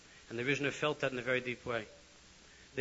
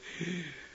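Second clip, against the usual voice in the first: shocked gasp; 4 semitones higher than usual. Retold or imitated. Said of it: "all the Chassidim went".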